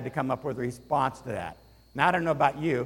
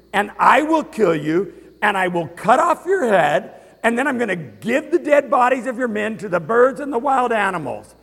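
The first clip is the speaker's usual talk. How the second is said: loud, high preaching of David's words; David proclaiming victory to Goliath, in full force; ringing proclamation; 3 semitones higher, 6 dB louder than usual. Acted. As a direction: declare it like a battle cry. Preacher re-voicing David's declaration.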